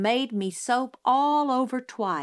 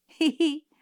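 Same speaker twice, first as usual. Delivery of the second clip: high gleeful hee hee; howling laugh; 8 semitones higher, 4 dB louder than usual. A narrator's reading. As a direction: cackle at him. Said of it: "I howled".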